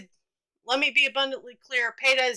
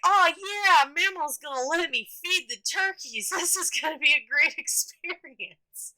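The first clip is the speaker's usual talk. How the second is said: put-on excited kid; 4 semitones higher than usual. Kid excited about feeding turkeys.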